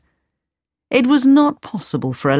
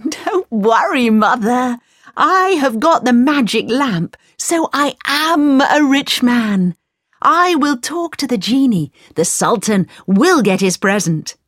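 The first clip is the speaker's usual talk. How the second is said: confident Aladdin; 7 semitones higher, 3 dB louder than usual. A narrator's reading. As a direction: boast cheerfully about the magic lamp. Aladdin reassures mother confidently.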